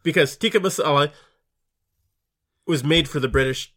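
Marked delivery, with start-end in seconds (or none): 0.3-1.1 "tikka masala" with no Indian accent; plain, unaccented "tikka" ending in uh; as flat as possible. Shown as a demonstration. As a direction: keep "tikka masala" as flat as you can. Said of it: "say it as flat as possible".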